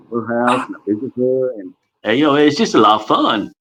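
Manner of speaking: a gentle nod to Forrest Gump, barely changed; Forrest Gump impression. Shown as a demonstration. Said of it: "I'll start with Forrest Gump".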